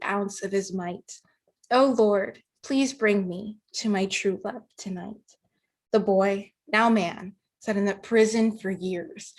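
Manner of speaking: reciting a rhymed story poem with measured phrasing; poem recitation. Acted. Young poet shares a love story poem with the group, reciting. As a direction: read it as verse, pausing between lines, livelier as it builds.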